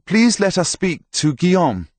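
high, loud polite request; calling up. A narrator's reading. Priest asks herald on the wall, calling up loudly. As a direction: call your plea up to the battlements.

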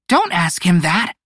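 high, snapping reproach; snappish. A narrator's reading. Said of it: "Pico snapped".

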